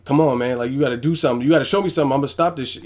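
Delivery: lightly acted firm corner warning; stern trainer. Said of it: "You just have to be stern".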